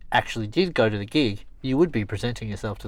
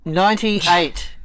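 slow announcement; 7 semitones higher, 7 dB louder, much slower than usual. Acted. Drawn-out number reveal.

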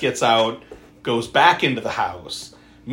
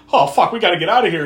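panicked; 6 semitones higher, 8 dB louder, faster than usual. Retold or imitated. A J realizes mother is gone.

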